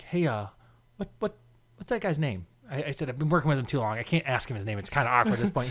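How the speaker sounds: hushed, acted side question; discreet aside. Coworker asking for a forgotten name, discreet aside. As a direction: ask softly so he won't overhear.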